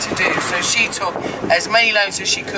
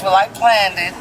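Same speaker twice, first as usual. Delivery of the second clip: put-on light country Kansas accent, quoting a woman; a hint of a Kansas accent, retelling. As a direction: imitate her easy Kansas way of talking. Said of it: "your country accent is actually pretty good".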